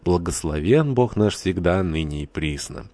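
slow priestly intoning, falling away at the end; liturgical proclamation. A narrator's reading. Priest opens the wedding rite, solemnly proclaiming. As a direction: proclaim it slowly like a priest at the altar. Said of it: "возглашал".

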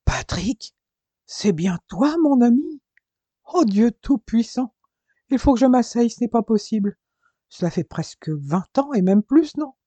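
booming, astonished reunion cry; an old friend bellowing with surprise; roaring joy. Acted. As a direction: roar it out in disbelief. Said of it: "un rugissement sortit de sa poitrine".

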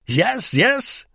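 high, loud cheerful wife; cheerful echo. A narrator's reading. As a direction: echo brightly and happily. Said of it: "echoed Frau Vogel cheerfully".

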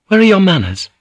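high, loud, punching are; high indignant scold. A narrator's reading. Priest scolding guards, high and indignant. Priest's rebuke, first take.

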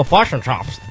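mock Kiwi "fosh and chops"; New Zealand accent. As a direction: mimic New Zealanders saying fish and chips. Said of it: "listening to people go".

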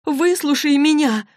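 high, pleading panic; frantic plea; panicked mother. Acted. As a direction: beg her daughter to listen, frightened. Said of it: "В мамином голосе ощущалась паника".

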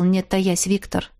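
plain reading voice

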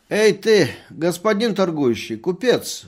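put-on loud, high, slurred drunk calling out; a drunk doctor hollering at the merchant; drunken shout. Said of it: "говорил доктор пьяным голосом". (пьяный окрик, громко и высоко)

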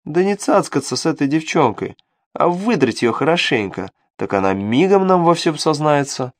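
scheming little devil voice; sly imp voice. Acted. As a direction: tempt him, sly and sneaky. Imp advising.

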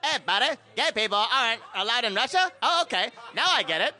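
South Park-style Canadian voice; Canadian accent. Acted. Player performing his card in a mock Canadian accent. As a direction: put on a cartoon Canadian accent. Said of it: "It's gonna be Canadian".

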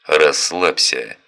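slow, firm and assured; calm the hothead with authority; confident. Acted. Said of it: "уверенный голос".

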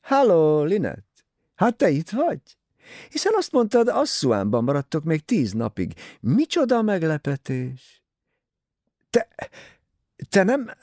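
a rival's loud, falsely cheerful hello; cheery mock surprise. A narrator's reading. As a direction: greet your rival with brittle glee. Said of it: "Jókedvűnek tűnt".

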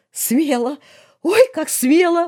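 high, drawn-out moan; moaning through tears. A narrator's reading. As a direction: groan it out, overcome with tears. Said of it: "простонал сквозь слёзы Фёдор". (стоном, сквозь слёзы, высоко)

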